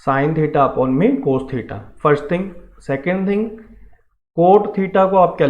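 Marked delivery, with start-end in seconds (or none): 0.1-1.8 spelled out very slowly, word by word; teacher dictating a formula, very slow; slow dictation. Shown as a demonstration. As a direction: say "Sine theta upon में cos theta" slowly, as students copy it down. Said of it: "Tan theta को क्या लिखा जाता है बेटे?".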